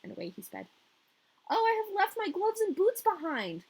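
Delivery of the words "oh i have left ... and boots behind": put-on high, louder little girl cry; Gerda's high dismayed cry. A narrator's reading. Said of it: "cried Gerda".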